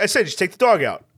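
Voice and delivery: put-on quick, insistent Queens accent; impatient imitated New York accent. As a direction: repeat it briskly in New York speech. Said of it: "that accent is also buried deep".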